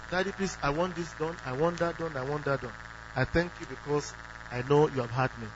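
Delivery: put-on calm childlike asking of God; confident asking. Shown as a demonstration. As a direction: ask simply, like a child to a father. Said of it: "If you are asking".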